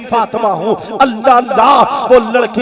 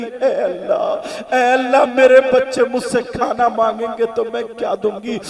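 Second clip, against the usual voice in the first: tearful prayer; 3 dB quieter than usual. Acted. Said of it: "रो के कहने लगी".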